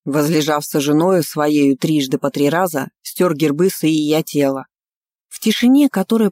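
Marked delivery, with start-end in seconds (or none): 0.0-4.7 reading aloud. A narrator's reading. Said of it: "И Мелсен зачитал".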